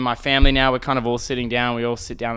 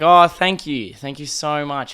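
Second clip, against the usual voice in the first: overly polite thanks; 3 semitones higher, 5 dB louder than usual. Retold or imitated. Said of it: "such a polite dickhead".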